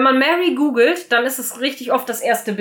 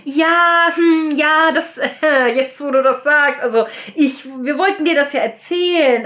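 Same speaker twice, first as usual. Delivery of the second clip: hemming and hawing; 4 semitones higher than usual. Retold or imitated. Cora stalls before telling Mary the news, awkward and evasive. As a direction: stall with an embarrassed half-laugh. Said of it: "sie druckst dann halt so rum".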